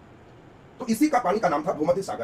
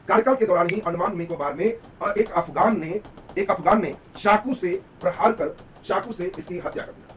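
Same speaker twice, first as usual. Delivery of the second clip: slow, louder, dictation-like emphasis; emphatic recap; 3 dB louder, slower than usual. Real, not acted. Teacher recaps the killing for students, slow and emphatic. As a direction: drive the key fact home slowly.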